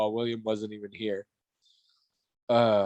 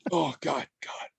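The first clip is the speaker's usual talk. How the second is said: stage fright. Pretend. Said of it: "Sorry, I'm a little nervous".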